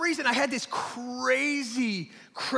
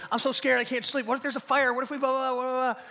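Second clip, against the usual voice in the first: higher, hammed-up worried child; mock scared kid; 5 semitones higher than usual. Scared boy telling mom and dad, mock fretful pleading.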